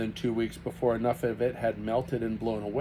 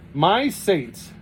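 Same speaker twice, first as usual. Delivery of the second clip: gasp; 6 semitones higher, 7 dB louder than usual. A narrator's reading. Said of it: "gasped Kate".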